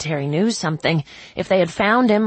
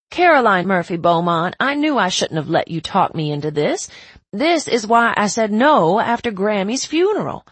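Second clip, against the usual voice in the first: scolding mother; 5 dB louder than usual. Acted. Mom scolding by full name.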